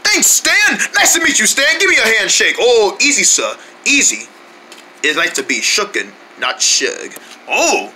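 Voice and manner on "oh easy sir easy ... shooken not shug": lightly put-on British butler accent; a hint of a British butler. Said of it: "British accent".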